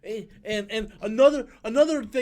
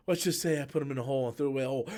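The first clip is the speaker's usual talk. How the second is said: mock Amanda Waller; 7 semitones lower, 6 dB quieter, much faster than usual. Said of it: "Amanda Waller's like".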